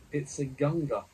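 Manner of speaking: excited shout of a catch. A narrator's reading. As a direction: call it out loud across the deck. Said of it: "shouts Heston Gurgle".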